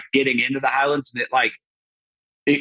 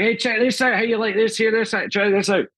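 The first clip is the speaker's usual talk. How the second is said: higher, excited put-on Scottish lass voice; mock Scottish lassie; 9 semitones higher than usual. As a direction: squeal it like a wild Scottish girl who just heard Yanks. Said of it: "she's like".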